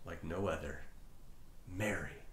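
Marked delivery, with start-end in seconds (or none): 1.7-2.2 tender. Acted. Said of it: "one word that warmed her heart".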